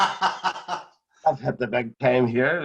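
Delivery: slow words broken by real laughter; amused, very slow laughing boast. Real, not acted. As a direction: chuckle it out, savouring the joke. Laughing at his own story.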